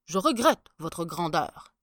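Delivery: firmly block the way, politely; a touch of a stiff palace guard. Acted. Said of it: "dit-il".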